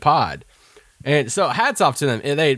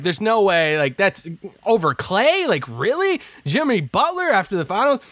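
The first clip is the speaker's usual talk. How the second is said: retold incredulity; 6 semitones higher than usual. Retold calling out friend's pick.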